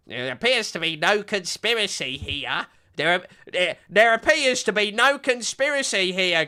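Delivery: lightly put-on posh British accent, dismissive; mock British accent. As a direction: spoof a British presenter brushing it off in a British accent. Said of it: "the soy British man is like".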